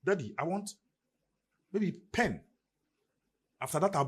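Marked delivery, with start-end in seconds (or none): 0.0-2.4 put-on child voice. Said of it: "They tell me".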